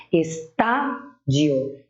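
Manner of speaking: Estádio very slowly, with TÁ held long; stress on TÁ. Shown as a demonstration. Teacher giving a proparoxytone example, drawing out TÁ in Estádio. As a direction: stretch the TÁ in Estádio, syllable by syllable. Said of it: "antepenúltima sílaba é a tônica".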